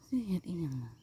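whispered question, no voice. Real, not acted. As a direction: breathe the question softly. Asking what it is made into. (กระซิบถามเบาๆ)

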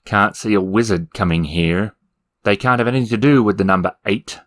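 sneering. Acted. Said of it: "sneered the demon".

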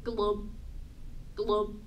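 low, short glubs; low bubbly fish noise. Acted. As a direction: glub like a fish. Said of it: "Our fish says".

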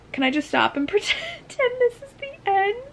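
high, teary laughing plea; crying. Real, not acted. Reader near the end of the book, crying plea. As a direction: plead through tears with a wet laugh. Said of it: "I thought I wouldn't cry".

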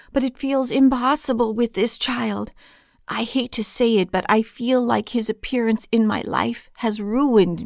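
troubled confession poured out with rising urgency; distressed, pleading for help; desperate plea. Acted. Man begging strangers online for help with his son, desperate.

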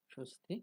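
স্বস্তি in two syllables, opening on 'sho'; Bengali pronunciation. Shown as a demonstration. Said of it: "আমরা বাংলায় উচ্চারণ করি". (স্বস্তি, বাংলা উচ্চারণে)

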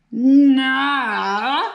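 loud booming refusal in a monster voice; thundering no. A narrator's reading. Grumpy bunyip refusing Emily's Christmas cheer, booming no. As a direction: slam the door on Christmas. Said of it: "thundered the bunyip".

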